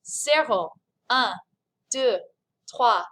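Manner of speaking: evenly spaced French counting; count-along. Shown as a demonstration. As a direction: count steadily in French for learners to join. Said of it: "One more time".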